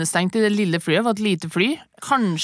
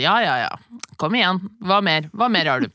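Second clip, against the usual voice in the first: calm defiance. Retold or imitated. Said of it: "da var jeg så rolig, jeg bare sånn".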